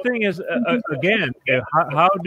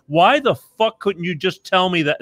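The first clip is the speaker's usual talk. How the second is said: real rising exasperation, pitched up; getting upset; 4 semitones higher than usual. Real, not acted. Host imagining being chased to his car, getting upset. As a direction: demand it, exasperated and higher. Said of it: "I'm getting upset now".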